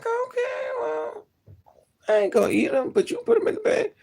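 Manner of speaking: squeaky voice breaking into laughter; high laughing reply. Retold or imitated. Laughing at the cashier who bagged biscuits anyway, high and giggly.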